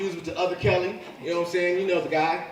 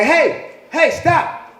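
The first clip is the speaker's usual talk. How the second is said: loud, higher mock yell to stop; parent yelling; 10 semitones higher, 8 dB louder, much slower than usual. Dad yelling at fighting kids to stop, loud and high. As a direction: bark at the kids to quit. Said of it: "I'm like".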